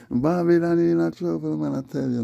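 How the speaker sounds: preacher shout. Acted. High loud declaim.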